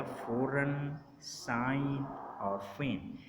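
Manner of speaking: "फ़ौरन, साइन, फेन" with no G before the N; silent G. Shown as a demonstration. Teacher reading out words where G precedes N, silent G. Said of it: "हम pronounce नहीं करते".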